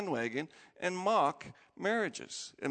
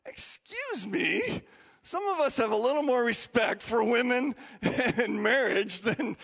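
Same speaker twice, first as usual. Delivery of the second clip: indignant retort; 5 semitones higher, 4 dB louder than usual. Retold or imitated. Pastor mimicking his own indignant reply. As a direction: bristle with offended righteousness. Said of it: "And I'm like".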